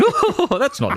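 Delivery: giggly, slightly tipsy mock voice; tipsy late-night self. To his co-host, mocking his tipsy late-night self, laughing. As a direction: play your tipsy self the night before. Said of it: "I was a little bit tooty and I was going".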